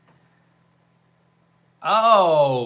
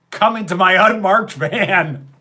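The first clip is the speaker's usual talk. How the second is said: shady recruiter; 6 semitones higher, 9 dB louder than usual. Pretend.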